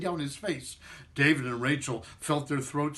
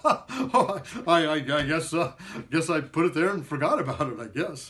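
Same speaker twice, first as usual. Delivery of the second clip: laughing. Acted. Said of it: "he said, laughing".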